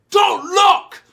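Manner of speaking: high, loud mock cry; alarmed shout. Guards when Mako's pants rip, alarmed shout. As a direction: call it out like a sudden warning.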